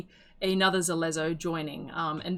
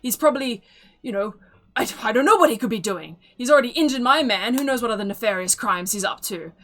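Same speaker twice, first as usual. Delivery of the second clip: louder, higher, fast outraged complaint; indignant accusation; 3 semitones higher, 6 dB louder than usual. Acted. Stern elven woman blames the other man, loud and outraged. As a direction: rant like a furious townswoman.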